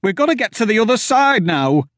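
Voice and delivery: high, loud, stammering panic; terrified pleading. Acted. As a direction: beg them to flee. Terrified farmer facing the door.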